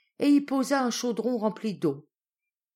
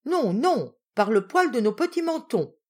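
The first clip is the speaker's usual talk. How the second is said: defiant refusal; 4 semitones higher, 5 dB louder than usual. Acted. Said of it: "répondirent les deux frères".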